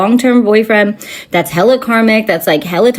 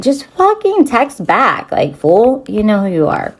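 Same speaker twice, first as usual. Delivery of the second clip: irritated, stretching the first words; annoyed. Acted. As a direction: vent it like a fed-up demand to a friend. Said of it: "I'm just annoyed".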